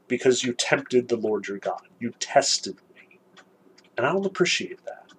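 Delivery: a hint of a stern deity; stern God. God rebukes Moses.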